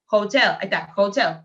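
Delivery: hotel said with a strong breathy h; teacher stresses the h in hotel; aspirated h. Shown as a demonstration. Teacher models the aspirated h for the class. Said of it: "Si yo digo a hotel".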